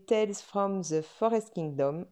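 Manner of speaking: English title in a French accent. Real, not acted. French vlogger giving the book's English title, French-accented English. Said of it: "mon accent anglais, c'est pas ça".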